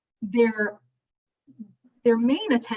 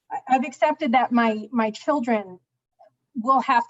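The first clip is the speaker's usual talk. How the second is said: louder and clearer after being muffled; speaking up; 2 semitones higher, 4 dB louder than usual. Real, not acted. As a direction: push the voice out more. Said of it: "I'll try to speak up".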